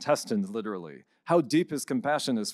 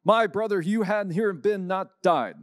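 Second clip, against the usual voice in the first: mock screaming Mary; 6 semitones higher than usual. Priest retelling Mary's grief to Jesus, higher mock wail. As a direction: retell Mary crying out to Jesus, mildly raised and pleading. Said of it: "Mary comes out screaming and says in bad Greek".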